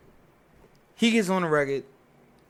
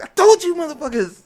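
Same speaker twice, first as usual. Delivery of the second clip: much higher, louder mock yell; imitated gloating shout; 11 dB louder than usual. Fifty gloating to the producer, a mock shouted I-told-you. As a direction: crow it like fifty did.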